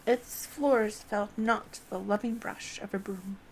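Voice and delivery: put-on loud, grand narration of the old library; reading Broomsy's lines. The streamer voicing Broomsy's loud greeting at the library door. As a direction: read it out big, like a storyteller broom. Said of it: "Broomsy says".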